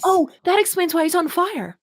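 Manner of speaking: high, laughing mock realization; real laughter; laughing joke. Real, not acted. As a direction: toss it off with giggles. Joking about the sun.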